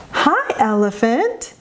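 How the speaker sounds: slow, sing-song "Hi, elephant"; acoustic highlighting. Shown as a demonstration. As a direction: stretch out "elephant" with a melodic rise at the end. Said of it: "That's a good way to use auditory, acoustic highlighting".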